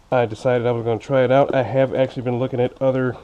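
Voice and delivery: talking around fresh braces; slightly lisping braces speech. Real, not acted. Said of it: "excuse me if I sound a little funny".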